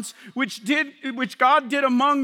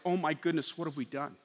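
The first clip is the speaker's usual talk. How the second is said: much softer, hushed awe; stricken realization; 6 semitones lower, 8 dB quieter than usual. Acted. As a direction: breathe it out in shock. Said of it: "They were like".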